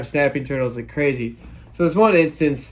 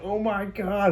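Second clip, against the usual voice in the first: shocked gasp; 7 semitones higher, 4 dB quieter, slower than usual. Retold or imitated. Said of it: "I'm like".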